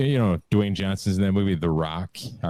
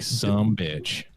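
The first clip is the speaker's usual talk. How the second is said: The Rock impression; 2 semitones higher than usual. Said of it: "the way he says it".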